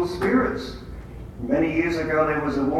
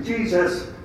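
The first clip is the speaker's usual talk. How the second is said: rising into a louder, faster demand; fed-up prayer; 4 semitones higher, 4 dB louder than usual. Retold or imitated. Walker venting at Satan to Jesus, building to loud. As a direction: push Satan out, building fast at the end. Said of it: "That's not a holy prayer".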